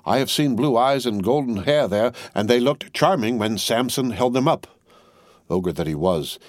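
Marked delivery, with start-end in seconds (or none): 0.0-4.7 mild relish. Acted. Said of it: "he spoke like an epicure".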